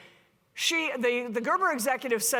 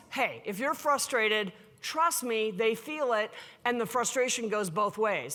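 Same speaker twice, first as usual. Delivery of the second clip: calm advice. Retold or imitated. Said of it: "And I'm like, always".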